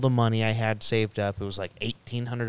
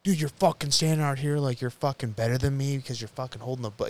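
higher-pitched mock indignation; imitating pissed-off brother; 4 semitones higher than usual. Brother confronts him for holding a book, imitated as pissed off. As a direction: retell an annoyed rant, pitched up. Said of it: "he got all pissed off".

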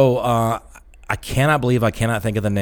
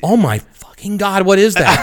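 slow, high mock fright; startled; 9 semitones higher, 4 dB louder, slower than usual. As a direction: gasp it out at the beast. Stripper seeing jaguar imagined.

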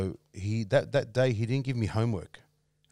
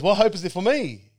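loud, high retold wail; imitating a man bawling, high and loud; mock crying; 11 semitones higher, 9 dB louder than usual. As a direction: cry out in hammed-up despair. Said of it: "and then he started crying".

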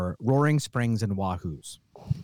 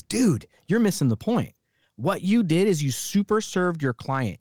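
put-on older mentor; 5 semitones higher than usual. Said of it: "somebody that's forty-five goes".

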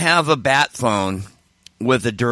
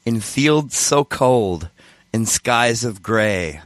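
slow, solemn recitation; reciting song lyrics; 2 semitones lower, slower than usual. Real, not acted. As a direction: read each line slowly and gravely. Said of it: "I wrote a song once".

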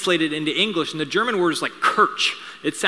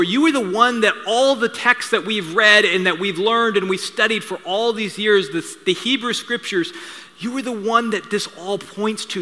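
a hint of Peter's awed declaration; fervent proclamation; 3 semitones higher than usual. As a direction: build it up like a confession of faith. Peter proclaims Jesus Messiah.

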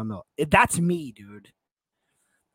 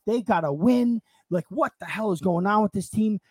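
agitated fan rant, raised and fast; ranting at the team; 3 semitones higher than usual. Retold or imitated. Fan cursing his team to his dad, angry rant. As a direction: curse the team out in the car. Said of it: "cursing Inter out".

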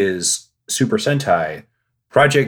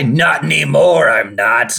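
villain retort; 4 semitones higher, 5 dB louder than usual. Retold or imitated. Villain reply in skit.

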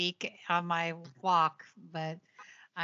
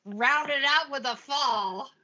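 sarcastic; 3 semitones higher than usual. Retold or imitated. Sarcastic mock cheer about falling.

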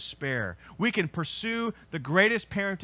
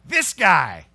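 loud confession; 10 dB louder, slower than usual. Retold or imitated. Kids answer who changed code.

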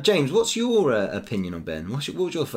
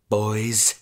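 slow villain voice; much slower than usual. Acted. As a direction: drag it out like a villain. Comic intro, villain orders.

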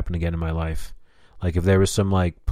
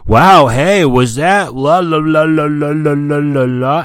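loud, high, sing-song mockery; mock amazement; 8 semitones higher, 8 dB louder, slower than usual. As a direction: imitate a gushing onlooker, trailing into la-las. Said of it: "just so someone could be like".

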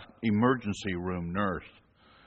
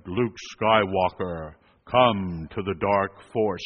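Vader voice; 4 semitones lower, slower than usual. Retold or imitated. First Vader attempt.

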